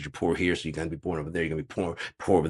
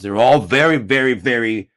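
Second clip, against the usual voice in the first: comic high emphasis; 6 semitones higher, 10 dB louder than usual. Acted.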